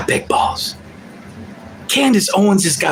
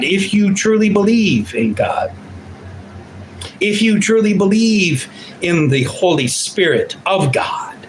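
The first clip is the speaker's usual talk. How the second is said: preachy appeal. Real, not acted. Closing sermon-like appeal.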